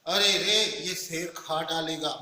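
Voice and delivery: scared, slowed words at a lion; panicked as the lion nears; mild fearful exclamation; frightened cry. Shown as a demonstration. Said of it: "मैं ऐसे कहता हूँ तो इससे लगता है".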